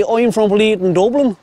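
playful mock Dublin twang; Dublin accent. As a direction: put on a broad Dublin accent for the ducks. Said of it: "speak with a Dublin accent".

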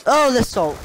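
high-pitched theatrical wail; high mock-despairing cry; heightened mock lament. Mock lament said twice, second higher.

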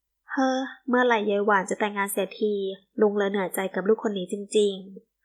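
a mild weary sigh and grumble, slowing at the end; fretting father grumbling to himself; understated worried mutter. Acted. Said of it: "คุณณทีบ่นพึมพำด้วยความกลัดกลุ้ม".

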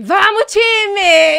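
long, slow, loud battle cry; rallying shout. Retold or imitated. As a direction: pump up the team under the cold shower. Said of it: "falei assim". (grito de guerra lento e alto)

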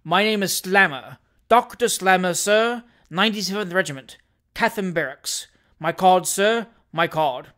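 loud, affronted self-announcement; awful voice. Acted. Doctor presenting his card to rival, awful voice. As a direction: indignation barely held in. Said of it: "said the doctor in an awful voice".

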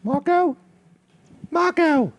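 high, loud calling Marco. Acted. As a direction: shout for him across the room.

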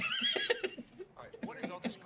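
high-pitched giggling laugh. Real, not acted. Laughing at the email.

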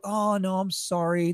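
mock apologetic refusal, tailing off softly; so sorry. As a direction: imitate someone letting you down gently. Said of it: "They're so sorry".

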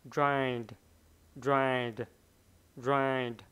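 ride, the d barely touched; soft final d. Shown as a demonstration. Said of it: "nhìn cái khẩu hình miệng".

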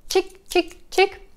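high chick, chick, chick like snipping scissors; showing a child scissors; scissors snip for a child. Shown as a demonstration. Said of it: "explain for the child".

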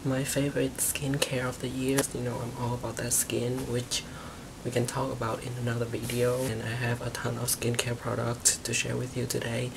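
hushed voice so the roommate sleeps on; whispering. Real, not acted. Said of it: "I have to whisper kind of because my roommate is literally sleeping".

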